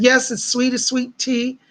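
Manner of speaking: a touch of Southern honey; Southern accent. Retold or imitated. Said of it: "so sweet and Southern".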